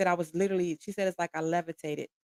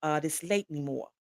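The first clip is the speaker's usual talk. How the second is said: imitated Philadelphia accent, lightly done. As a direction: retell her line in a Philadelphia accent. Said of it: "so she had this strong accent".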